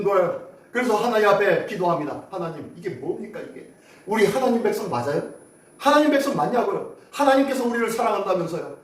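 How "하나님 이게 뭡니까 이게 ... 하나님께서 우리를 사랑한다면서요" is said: a touch of lament, swelling at the end; understated mock lament; mild wailing. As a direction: voice the people's complaint to God. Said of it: "라고 하면서 울부짖습니다".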